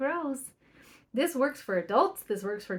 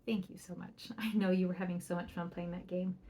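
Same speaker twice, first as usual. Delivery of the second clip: soft, tender praise, much softer; warm praise; 3 semitones lower, 6 dB quieter than usual. Shown as a demonstration. Parent praises child for going to do school, soft and tender. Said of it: "And you say".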